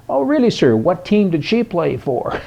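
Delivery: high, mock-innocent reply; cheeky punchline. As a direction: deliver the punchline with fake innocence. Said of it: "punchline of retold joke".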